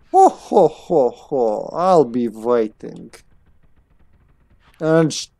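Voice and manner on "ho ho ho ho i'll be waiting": drawn-out villain-like chuckle and sign-off; chuckling character. Acted. Scientist bidding player farewell, slow chuckling.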